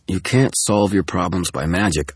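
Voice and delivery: curt irritated retort; snapping. Acted. Dresden rebuking Tara, a curt irritated snap. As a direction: bite back at her. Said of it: "I snapped".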